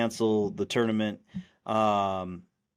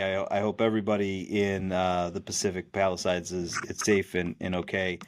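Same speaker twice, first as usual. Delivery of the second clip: lower, earnest well-wishing; mean every word, lower and gentle; sincere; 3 semitones lower than usual. Real, not acted. Host wishing Palisades residents safety, sincere and lower. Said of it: "with all sincerity".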